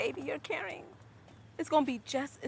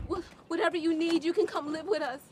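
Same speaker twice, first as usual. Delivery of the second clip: crying; 3 dB louder than usual. Acted. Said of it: "Why are you crying".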